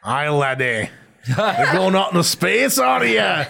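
hammed-up Scottish brogue, rising to a high finish; Scottish accent. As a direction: build to a jokey Scottish holler. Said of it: "That's my Scottish accent".

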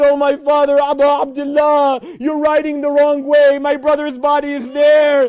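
loud, urgent call to father. Acted. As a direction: shout so he turns around. Daughter calling from the tent.

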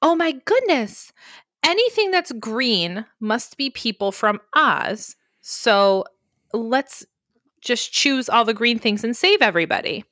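lightly voiced gushing Dorothy; a hint of breathless Dorothy, high at the start. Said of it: "she starts going".

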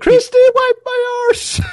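put-on high, loud cranky old man voice; hammed-up old codger shout; mock old man yell. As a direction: bellow it like a grumpy grandpa.

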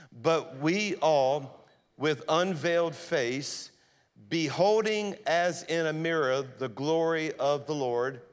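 slow congregational reading aloud; many voices in unison. Real, not acted. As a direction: read it slowly together as one. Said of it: "let's all read it out loud together".

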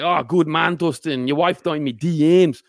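put-on Irish accent, slowing at the end; Dublin accent. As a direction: imitate a Dubliner squaring up. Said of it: "He's come from the sort of mean streets of Dublin".

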